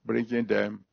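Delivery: prayer. Acted. Pastor praying over new converts, earnest prayer voice. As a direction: pray aloud over the people coming forward. Closing prayer after altar call.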